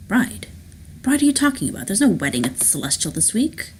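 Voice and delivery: mildly incredulous phone reply; puzzled disbelief. Acted. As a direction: pitch jumps up, then settles. Rourke puzzled by news of bride.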